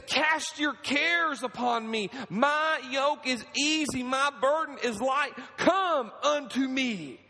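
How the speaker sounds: slow, high, tender voice of God; a lightly voiced loving Father calling; God speaking. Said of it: "And he says".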